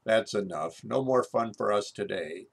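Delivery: breezy doctor. Retold or imitated. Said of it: "Finally goes".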